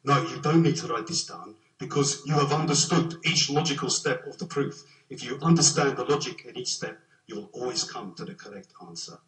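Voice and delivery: put-on a light South African accent for the old professor. Quoting his tutor's advice in a mild South African accent. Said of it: "in his South African accent".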